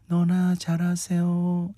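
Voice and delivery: slow, low, cool monotone; low flat Lee Young-ae line. Retold or imitated. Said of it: "착 깔은 음색으로".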